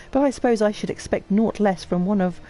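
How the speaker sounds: lightly voiced haughty aristocrat; lofty noble. Noble lecturing the player about shutting the manufactory, lofty. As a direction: declaim with cool superiority.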